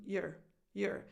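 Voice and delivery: "your" as a short, unstressed "yer"; reduced your. Shown as a demonstration. Coach showing the unemphasised word, reduced your. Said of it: "it gets reduced to".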